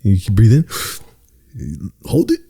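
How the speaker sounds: slow, lulling meditation instructor; meditation guide voice. Retold or imitated. Imitating the guru guiding listeners to breathe. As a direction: ease them into the breath like a sleep guide. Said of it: "And you go".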